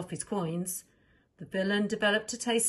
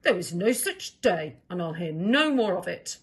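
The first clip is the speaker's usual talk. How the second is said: stern king; 5 dB louder than usual. Acted. King refuses, story.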